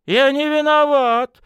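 high, loud, panicky protest; panicked babbling. Acted. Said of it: "залопотал обалдевший начальник".

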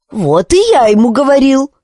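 high, eager chiming in; agreeing chime-in. Acted. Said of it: "поддакнул Калибурн". (Калибурн поддакивает, высоким голосом)

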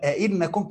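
"أئنكم" as a-'innakum, extra opening a; questioning hamza added. Shown as a demonstration. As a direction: say both hamzas in "أئنكم", a then i. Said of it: "الهمزة للإنكار". ("أئنكم" بهمزة إنكار ثم همزة مكسورة)

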